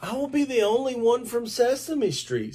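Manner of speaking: high, fuzzy monster voice; Grover voice. A narrator's reading. Reader voicing Grover to the children, high monster voice. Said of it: "said Grover".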